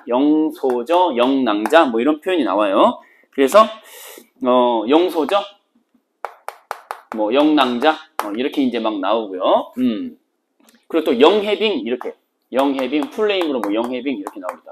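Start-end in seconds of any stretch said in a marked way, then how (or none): none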